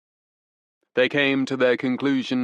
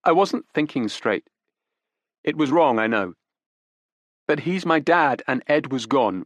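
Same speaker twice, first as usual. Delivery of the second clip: put-on higher, urgent young woman pleading; desperate young woman; 5 semitones higher, 3 dB louder than usual. Daughter defends her father to detectives, desperate. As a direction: grasp for excuses, pitched up.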